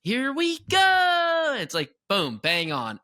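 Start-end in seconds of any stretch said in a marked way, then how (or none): 0.0-1.6 Peter Pan ride voice. Retold or imitated. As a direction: sing it out like the ride's Peter Pan. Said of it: "it sounds so good with the".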